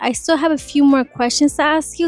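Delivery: enticing voicemail. Shown as a demonstration. Saleswoman leaving a customer a voicemail, enticing. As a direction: coax them into calling back. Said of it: "I leave a really enticing voicemail too with my voice".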